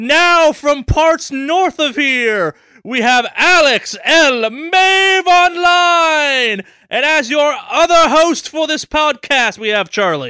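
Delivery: high, loud Mexican wrestling ring announcer voice. Podcast host introduces the show and its hosts like a mexican wrestling ring announcer. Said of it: "like a Mexican wrestling ring announcer".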